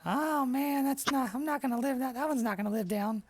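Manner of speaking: high amused innkeeper; laughing innkeeper. Acted. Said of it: "And he's like".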